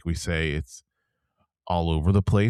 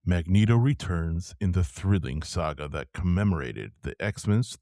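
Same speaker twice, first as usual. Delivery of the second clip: trailer voice. Shown as a demonstration. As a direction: read it like an epic movie trailer. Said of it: "I'm gonna try to do my trailer voice".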